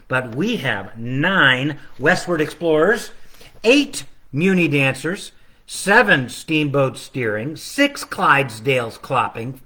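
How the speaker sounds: sing-song counting rhythm, each number leaned on; carol countdown. Acted. Illustrator reading his book's countdown in sing-song. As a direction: recite it like the carol.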